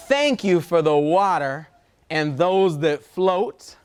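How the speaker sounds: slow, measured picture-book reading with long pauses; reading to children. Acted. Reader shares a love letter to Earth with children, slow storytime reading. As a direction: read it out phrase by phrase for little listeners.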